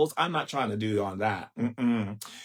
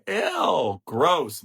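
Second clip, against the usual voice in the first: disgusted; 3 semitones higher than usual. Real, not acted. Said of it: "reacts with disgust".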